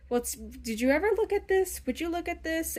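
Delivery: a hint of a nerdy guy showing something off; nerdy guy with glasses. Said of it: "that guy with the glasses going like".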